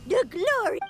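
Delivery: grand proclamation, lightly voiced; mock-majestic announcement, barely changed voice; imitating Cloud Retainer. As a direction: play at being a lofty adeptus. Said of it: "An impressive imitation".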